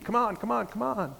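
restless, itching to leave; antsy. Retold or imitated. Dan hurrying Jimmy along, antsy and fidgety.

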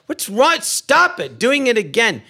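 high-pitched exasperated protest; mock outrage. Blind man telling his bed partner off, high mock outrage. Retold quarrel in the sketch.

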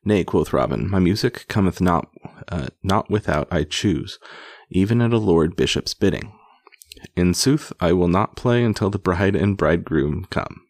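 measured, emphatic read-aloud storytelling; projected storybook reading; story narration. A narrator's reading. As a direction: read an old tale aloud with relish. Reads an old tale aloud.

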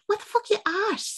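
high, shocked mock outrage; shocked outburst. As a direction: blurt it in disbelief. Retold shocked woman quote.

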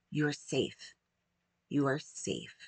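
hushed, softly voiced reassurance; soft whisper to child. Parent comforting an upset child, soft mock whisper. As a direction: say it gently, as if into a child's ear. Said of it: "whispering in their ear".

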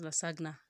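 lasagna with the g sounded, la-SAG-na; spelling pronunciation of lasagna. Shown as a demonstration. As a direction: say lasagna as it is spelt. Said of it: "That tends to pronounce".

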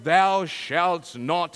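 slow, grand biblical proclamation; booming Hollywood commandment voice; Cecil B. DeMille. Retold or imitated. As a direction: intone it like an epic movie Moses. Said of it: "That's my best Cecil B. DeMille".

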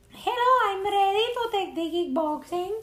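high, put-on Hispanic accent imitating her girlfriend; hammed-up Hispanic accent, eager and bright; mock Hispanic accent. Imitating girlfriend arriving at the gym, mock Hispanic accent. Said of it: "doing my accent more Hispanic".

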